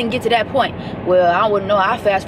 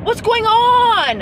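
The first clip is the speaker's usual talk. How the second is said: higher, exasperated, the last line slow; mock outrage at a movie; 6 semitones higher than usual. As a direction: scold the movie hero. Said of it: "I was getting so mad".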